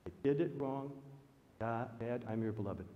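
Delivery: soft, subdued retold admission; humble confession. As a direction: confess it quietly, letting the voice sink.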